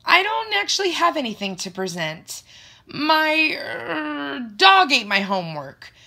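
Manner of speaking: high, loud, panicky excuse; nervous blurting. A narrator's reading. Student gives teacher an age-old excuse, nervous blurting. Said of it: "I blurt out nervously".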